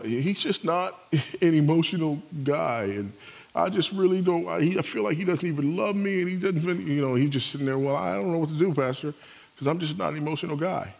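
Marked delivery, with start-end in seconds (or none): 0.0-6.9 higher-pitched wife airing her hurt; a hint of an aggrieved wife, halting; lightly voiced complaining wife. Wife complaining to pastor about husband. 7.8-10.9 mild mock excuse, a little higher; lightly voiced helpless husband. Husband excusing himself to the pastor.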